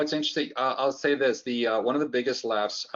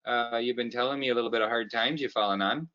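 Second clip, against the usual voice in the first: folksy Canadian boss, a hint of Canadian accent; light Canadian accent, cheerful. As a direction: play a cheap, friendly Canadian boss. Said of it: "switch over to the Canadian side".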